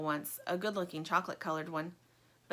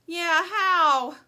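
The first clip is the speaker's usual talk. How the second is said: moaning; 10 semitones higher, 11 dB louder than usual. Acted. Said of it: "moans Lumpy".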